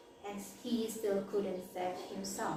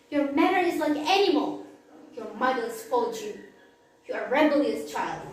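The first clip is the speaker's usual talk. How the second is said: angry; 7 dB louder than usual. Acted. Father scolds son and sends him away, loud angry. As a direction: rage at the son and drive him off. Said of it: "Toba got angry".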